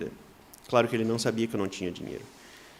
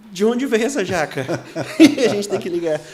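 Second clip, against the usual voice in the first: laughing; 6 semitones higher, 9 dB louder than usual. Real, not acted. Puzzled by a jackfruit at door.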